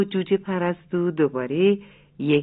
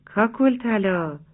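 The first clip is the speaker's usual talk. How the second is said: slow drawn-out call across the farmyard; 3 semitones higher, slower than usual. Acted. Rooster calls his chick friend from the fence, drawn out. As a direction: call her name slowly from the fence. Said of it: "از روی چپر صدا زد".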